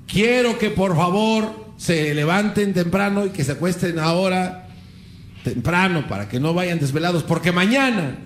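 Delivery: slow, drawn-out public address; mock rallying speech. Don Miguel Hidalgo telling the town about tomorrow's fight, mock oratory. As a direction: proclaim it slowly, pausing between phrases. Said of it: "se pone a gritar, le dice".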